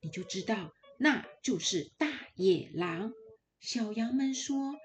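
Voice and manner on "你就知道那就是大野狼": put-on caring mother goat, warning her kids, bright and urgent; a loving mother pressing a warning on her little ones; mother goat's warning. Mother goat telling her kids to beware the wolf, earnest and urgent.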